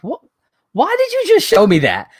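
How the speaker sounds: high, put-upon complaint; exasperated. Retold or imitated. Griping to a friend about the replay, high exasperated whine. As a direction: whine it at the TV, fed up.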